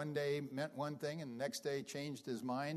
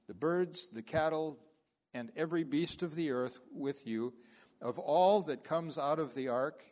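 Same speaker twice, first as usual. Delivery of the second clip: scripture reading. Acted. Pastor reading Genesis nine to the congregation, solemn and measured. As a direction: read the covenant verses with solemn weight.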